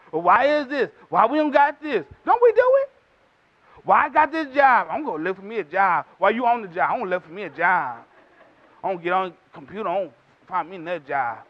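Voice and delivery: mock the complainers, muttering low; complaining grumbler.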